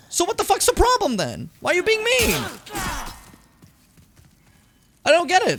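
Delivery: incredulous squeaky rant; exasperated high outburst. Real, not acted.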